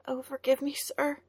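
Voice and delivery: put-on high, timid girl's voice; a scared farm girl caught out; frightened girl. A narrator's reading. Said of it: "frightened young woman apologizing".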